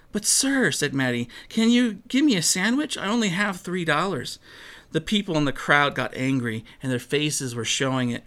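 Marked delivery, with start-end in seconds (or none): 0.1-0.7 a high, plaintive "But sir"; pleading girl. Acted. Little girl pleading with the busy counterman, high. 1.5-4.4 a high, plaintive "But sir"; pleading girl. Acted. Little girl pleading with the busy counterman, high.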